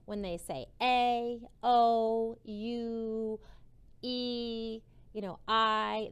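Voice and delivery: A, O, U, E, I each said loud and clear as its name; long vowel names. Shown as a demonstration. Teacher showing kids long vowel sounds. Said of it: "that's called a long vowel sound".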